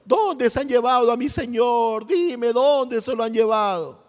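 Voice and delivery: mock-weeping cry of grief; imitated tearful lament. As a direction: act out her wailing question, stretching the last words. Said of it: "lloraba y decía".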